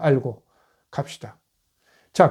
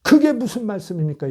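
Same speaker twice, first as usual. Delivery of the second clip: higher-pitched mock objection; imitating an objecting disciple; retold protest; 5 semitones higher than usual. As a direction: protest in mild disbelief, acting out a disciple. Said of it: "베드로가 항변하여 이르되".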